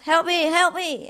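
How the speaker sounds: high-pitched plea, no real volume; lightly acted calling for rescue; mock cry for help. Man hanging from a cliff, mock calling for help. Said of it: "he was shouting for help".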